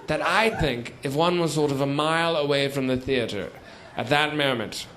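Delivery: usual speaking voice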